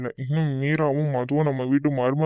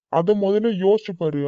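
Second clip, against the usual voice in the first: louder and higher, laying down the law; firm raised scolding; 4 semitones higher, 4 dB louder than usual. Acted. Husband to wife about village gossip, raised stern voice. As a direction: tell her sternly to think first.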